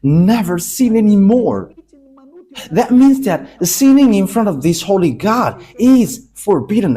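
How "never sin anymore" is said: Never sin anymore, sin pushed louder; stressed never. Shown as a demonstration. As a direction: press the words home, Never and sin weighted. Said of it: "emphasized clearly".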